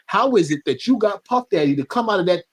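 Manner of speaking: a hint of a stern, annoyed mother; scolding mom. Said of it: "She said".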